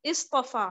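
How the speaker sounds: इस्तफा opened on a short "i"; इस्तफा said as "is-tafa"; kasra start. Shown as a demonstration. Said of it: "कैसे pronounce करूंगी".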